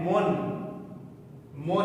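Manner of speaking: मुन drawn out slowly with a nasal n; slow recited mun. Shown as a demonstration. Teacher models मुन slowly for the student. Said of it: "पढ़ेंगे".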